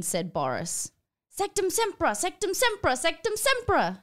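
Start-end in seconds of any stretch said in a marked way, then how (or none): 1.3-4.0 high repeated spell yell; mock wizard yelling a curse. A narrator's reading. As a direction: fling it three times. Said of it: "yelled Mister Charger".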